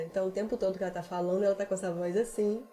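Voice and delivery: deep voice demo. Shown as a demonstration. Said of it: "uma voz mais grave, mais corpada".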